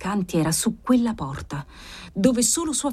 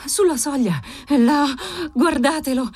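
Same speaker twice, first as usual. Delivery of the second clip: higher, insistent pointing-out; firm, energetic; 6 semitones higher than usual. A narrator's reading. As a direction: insist firmly that it is there. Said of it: "disse ella fermamente, energicamente". (voce acuta, ferma ed energica)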